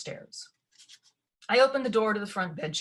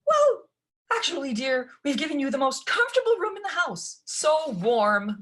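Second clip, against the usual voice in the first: high, loud, anxious babble; babbling stepmother; 9 semitones higher, 6 dB louder than usual. A narrator's reading. Stepmother babbles excuses to Ella, high and anxious. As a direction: gush nervously in a high voice. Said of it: "babbled stepmama".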